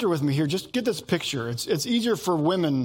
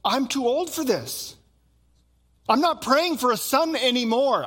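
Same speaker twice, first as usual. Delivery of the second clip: put-on resigned old man; 7 semitones higher than usual. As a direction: give up on the prayer, tired. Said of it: "He says".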